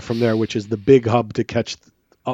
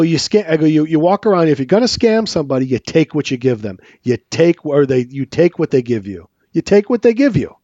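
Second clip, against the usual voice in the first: retelling a rising, heated rant at the panhandler; voice going up; 3 semitones higher than usual. Retold or imitated. Confronting the scammer in baggage claim, voice rising. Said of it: "and my voice goes up".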